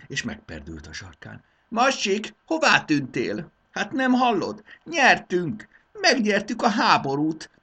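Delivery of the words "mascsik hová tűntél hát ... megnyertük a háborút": high, loud jubilant calling; rejoicing. Acted. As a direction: cheer the victory to the servant. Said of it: "örvendezett".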